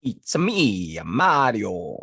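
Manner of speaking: too-deep, botched cartoon plumber; Mario. Shown as a demonstration. Podcaster attempting a game hero, too deep. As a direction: stretch it out, pitched too low. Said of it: "That was way too deep".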